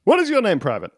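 lightly voiced drill sergeant; a hint of barking orders. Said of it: "I'll be your drill sergeant".

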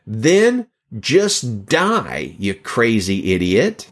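slow, drawn-out retold scorn; harsh. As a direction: imitate a harsh preacher, stretching each word. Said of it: "judging him for being so harsh".

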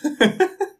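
high, sudden laugh; burst of laughter. Real, not acted. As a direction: let a real laugh burst out. Reacting to funny photo.

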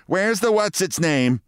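high-pitched, slow imagined wife; nagging wife. Retold or imitated. Man imagines his wife quizzing him, high and nagging. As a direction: nag it high, drawing it out. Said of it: "she would ask".

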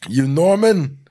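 Steve. Acted. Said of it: "impersonates both Steve and Norman".

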